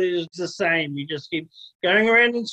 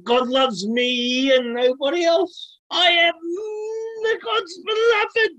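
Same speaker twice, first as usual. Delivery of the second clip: smug Nephi impression; 9 semitones higher than usual. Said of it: "He's like".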